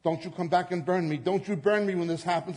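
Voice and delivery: retold frightened woman pleading; panicked plea. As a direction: beg him in a panic not to burn her. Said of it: "she began freaking out".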